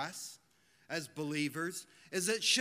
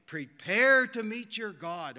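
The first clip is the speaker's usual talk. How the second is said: slow, louder prophetic call; slow, raised prophet's warning; crying out a warning; 7 dB louder than usual. Retold or imitated. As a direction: proclaim it slowly like a prophet. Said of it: "could cry unto Israel".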